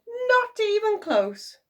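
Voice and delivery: high, loud, slow taunt; gloating goblin; gleeful imp. A narrator's reading. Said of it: "cheered the little man".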